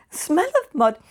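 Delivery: imitating an exasperated mother; insistent disbelief. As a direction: insist on it as the plain awful truth. Retelling mother's insistent objection.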